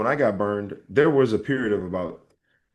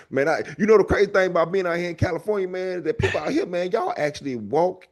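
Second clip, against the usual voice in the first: higher, hammed-up Southern comic; thick Alabama accent; 6 semitones higher than usual. Comic joking about California gyms, thick Alabama accent. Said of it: "I talk like this".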